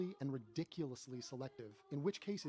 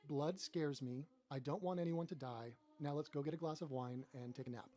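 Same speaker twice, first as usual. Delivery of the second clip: mock sappy crowd. Mocking emotional crowd.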